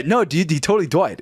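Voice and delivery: put-on babyish coworker voice insisting; imitated speech impediment. Coworker insisting the bad news is true, imitated speech impediment. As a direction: mimic cartoonish, muddled consonants. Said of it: "Why do you sound like Jimmy".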